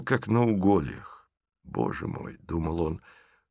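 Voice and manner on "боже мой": barely voiced inner groan; whispered thought. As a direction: think it in a whisper. (шёпотом про себя)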